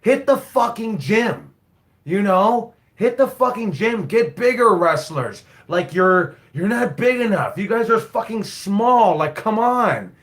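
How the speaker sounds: a lightly hammed-up coach scolding his wrestlers; mock coach lecture. Coach telling young wrestlers to get bigger, lightly hammed-up. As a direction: push it like a gym coach. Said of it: "I, I say".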